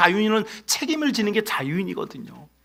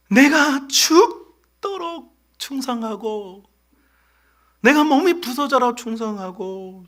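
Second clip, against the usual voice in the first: pleading Moses; 2 semitones higher, slower than usual. Acted.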